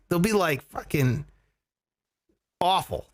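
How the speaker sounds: usual speaking voice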